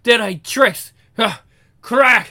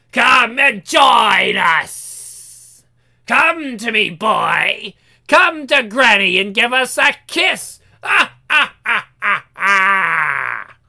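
creepy granny hag; 2 semitones higher, slower than usual. Acted. Granny hag calls boy.

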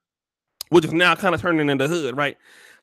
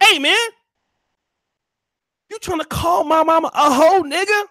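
angry Jesus shout; 12 semitones higher than usual. Acted. Jesus yelling at Percy over his mother, furious. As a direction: shout him down for insulting his mama. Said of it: "Jesus get mad".

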